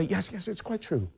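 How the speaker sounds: imagined Dante. Retold or imitated. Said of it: "If he were to say".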